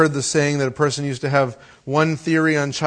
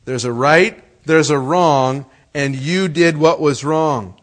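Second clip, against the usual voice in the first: louder, slow, deliberate lecture; dad lecturing son, loud and slow; stern father; 4 dB louder than usual. Retold or imitated. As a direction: spell out right and wrong.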